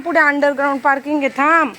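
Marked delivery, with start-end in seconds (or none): 1.4-1.7 higher, louder urgent call; calling out stop. Real, not acted. Mother calling her son away from the parking ramp, urgent shout.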